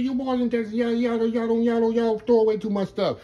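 lightly voiced old Cajun chef; imitating the old chef. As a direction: imitate the old Louisiana chef teasing a Texas boy. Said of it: "He said".

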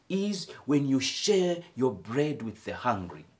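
loud, rising preacher's cry as God; booming divine appeal to the congregation; God's voice preaching. Acted. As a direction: proclaim God's demand with full force. God voiced preaching his demand.

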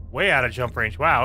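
usual speaking voice

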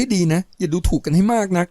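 growl. Acted. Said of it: "ประโยงคำราม".

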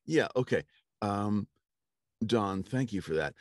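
high, loud mock director's voice; director giving notes. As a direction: pitch it up as a pestering director.

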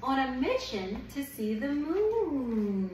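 gentle picture-book read-aloud; reading to a child. Acted. Reads picture book to baby.

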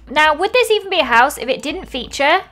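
excited planning. Real, not acted. Adds a pond.

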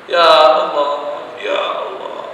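slow, drawn-out Ya Allah, half sung; pleading prayer. Acted. Old sinner begs Allah for forgiveness, slow pleading chant. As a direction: plead with God, stretching each Ya Allah.

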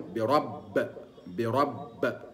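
برب, the ب bounced as if toward fatha; برب stopped with an echoing ب; qalqala demo. Shown as a demonstration. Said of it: "تقول". (قلقلة الباء عند الوقف)

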